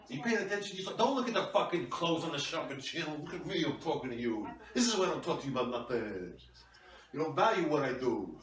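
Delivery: a hammed-up husband telling off his wife; mock angry husband. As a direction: play the self-important husband snapping back.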